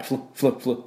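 フル as a short English "fl", repeated; quick separate bursts of F joined to L; consonant cluster drill. Shown as a demonstration. Teacher stressing the double consonant, short "fl" drill. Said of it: "ダブルシーンです".

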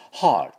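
"heart" with open "haa", curled R and t; English heart pronunciation. Shown as a demonstration. Teacher contrasting two katakana lookalikes, English heart pronunciation. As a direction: model "heart" to set against "hurt". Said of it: "まず心臓のハートは".

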